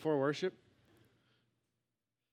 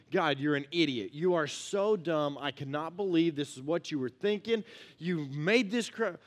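mock exasperated complaint; slower than usual. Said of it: "chapter one, the whole thing".

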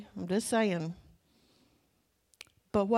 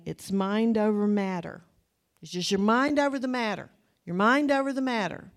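building slogan; 5 dB louder than usual. Acted. Preacher repeats slogan, building.

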